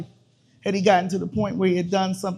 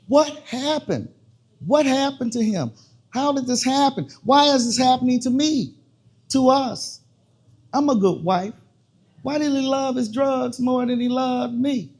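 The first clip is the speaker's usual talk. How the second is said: anguished questions; 5 semitones higher than usual. Acted. Wife's desperate questions about husband.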